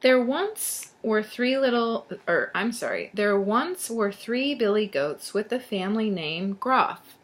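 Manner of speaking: put-on lively storybook narration to children; storyteller reading aloud; story read-aloud. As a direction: read it out clearly for young listeners. Reads a tale to children.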